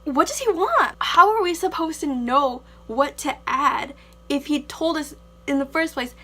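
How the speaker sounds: loud, high exasperated question. Real, not acted. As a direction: throw up your hands, fed up. Exasperated about contradictory teacher.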